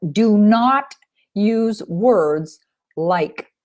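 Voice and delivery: "not" drawn out slowly and hit hard; stress on NOT. Shown as a demonstration. Coach warning students off negative words, slowly stressing not. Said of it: "This is really important".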